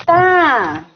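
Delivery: flat, distracted one-word answers from a parent worn out; tired, dismissive replies. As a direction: brush the child off with short grunts, half listening. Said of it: "porque a gente tá cansado".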